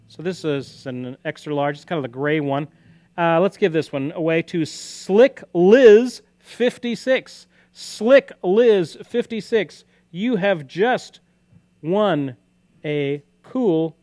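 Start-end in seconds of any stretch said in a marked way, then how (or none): 3.2-14.0 higher, louder and slow, announcing a winner; excited announcement. Real, not acted. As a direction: call out the winner like a prize host.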